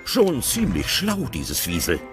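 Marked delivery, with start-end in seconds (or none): none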